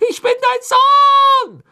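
noch lauter, langsam, Betonung auf „dein“; brüll es mit aller Kraft heraus; gellender Schrei. A narrator's reading. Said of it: "schrie er zu Crouch hoch". (langsam und laut, „dein“ herausgeschrien)

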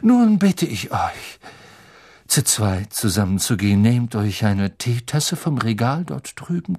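lightly voiced mystical teacher; Professor Trelawney. Trelawney instructs the class. (leicht gespielte, geheimnisvoll anweisende Lehrerin)

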